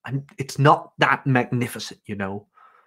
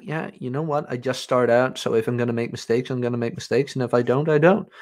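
nonchalant; 2 semitones lower, 4 dB quieter, faster than usual. Retold or imitated. New hire shrugging off possible mistakes to employer, nonchalant. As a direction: toss it off without a care. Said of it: "Very nonchalant about it".

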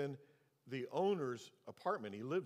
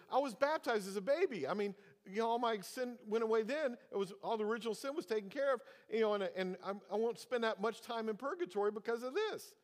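imitating the owner; 8 semitones higher, 3 dB louder than usual. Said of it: "He goes".

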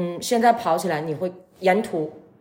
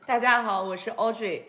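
stifled giggles; 3 semitones higher, 4 dB quieter than usual. Real, not acted. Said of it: "前女神不要憋着笑了".

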